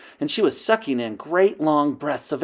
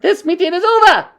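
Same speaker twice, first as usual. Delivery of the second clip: witch queen shouting; 11 dB louder than usual. Acted. Grand High Witch dismissing the coven, shouting. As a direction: end the meeting with a roar. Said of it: "she shouted".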